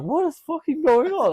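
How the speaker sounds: high, loud bewildered yell; retold panic. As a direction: re-enact panicked confusion loudly.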